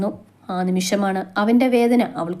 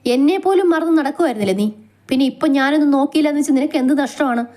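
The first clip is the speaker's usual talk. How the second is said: angry but hurt; 4 semitones higher than usual. Acted. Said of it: "ദേഷ്യത്തിനിടയിലും വേദനയാണ് ആ ശബ്ദത്തിൽ".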